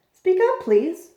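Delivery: loud, slow call to a faint voice. Acted. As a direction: call out slowly so the tiny voice hears. Horton asks faint voice louder.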